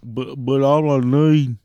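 slow, stammered caller protest; slow, put-on stammering plea; mock pleading customer. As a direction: imitate a caller still begging. Mocks caller still pleading.

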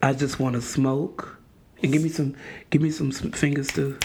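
measured, solemn poet's recital; Maya Angelou. Acted. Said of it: "in my best Maya Angelou voice".

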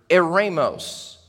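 eremos said slowly, eh-RAY-mos, falling; broad singsong kids theatre. Shown as a demonstration. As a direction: eremos spelled out slow for kids to copy. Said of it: "Kids, can you say that with me?".

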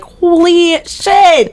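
high, slow astonished exclaim; drawn-out shocked disbelief; stunned. Retold or imitated. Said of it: "I was like".

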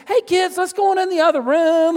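put-on high, loud call to the children; mama calling the kids out of the room, bright and loud; wife calling kids. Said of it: "She says".

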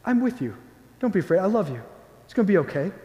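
soft, gentle reassurance; comforting. Acted. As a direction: reassure tenderly, as if with an arm around them. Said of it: "to comfort you and say".

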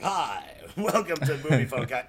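imitating a movie phone announcer; mock trailer announcer greeting. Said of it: "Nick just started improving, like".

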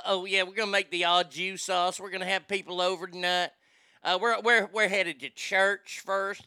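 imitated Southern lady; Southern drawl. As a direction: mimic a chatty Southern lady's drawl. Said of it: "coming from a person from the South".

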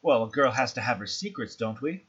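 lightly voiced, teasing madam; coy hostess. The speaker dodging a question about her secrets, lightly coy. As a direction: deflect playfully with a lilting tag question.

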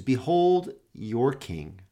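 slow, solemn Behold your king; slow proclamation. Acted. Pilate presenting Jesus to the crowd, slow and solemn.

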